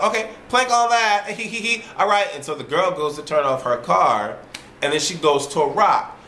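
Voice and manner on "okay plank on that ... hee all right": high, giggling mock voice with tittering laugh; giggly women. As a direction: play the silly women laughing. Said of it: "as they're like".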